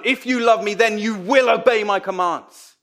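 pushy, menacing Jesus voice; threatening menace. Shown as a demonstration. Preacher voicing a menacing Jesus to disciples. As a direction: press it like a threat. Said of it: "With a, with a threatening menace sound".

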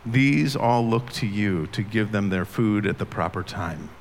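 measured, solemn reading of a psalm; scripture reading. Acted. Reads Psalm 104 aloud.

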